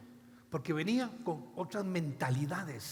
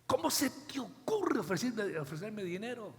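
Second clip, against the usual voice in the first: angry Pedro; 2 semitones higher than usual. Retold or imitated. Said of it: "Se enojó Pedro".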